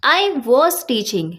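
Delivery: slow, emphatic "was" in "I was teaching"; teacher demo of stressed helping verb "was". Shown as a demonstration. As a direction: press on "was", drawn out. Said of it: "हम उस पे थोड़ा सा जोर दे के बोलेंगे".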